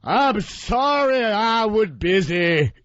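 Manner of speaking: high, slow, scolding put-on voice; overbearing boss voice. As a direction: nag in a high, slow, drawn-out voice.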